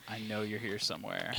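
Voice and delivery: eerie unvoiced whisper; ghost voice. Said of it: "the mystery ghost voice that you're hearing right now".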